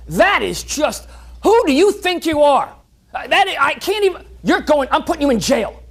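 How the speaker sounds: a hammed-up king too angry to finish his sentences; furious king. King berates servant over thumb.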